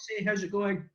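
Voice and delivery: high, bright American greeting; American accent. Pretend. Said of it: "answer your question in an American accent".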